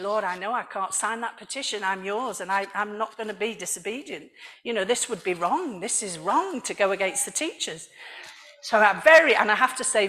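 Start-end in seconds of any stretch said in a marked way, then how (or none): 0.0-7.9 softer, lowered voice, as if thinking; hushed inner monologue; inner prayer. Retold or imitated. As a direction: retell a private, earnest plea to God. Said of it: "in my heart I was thinking".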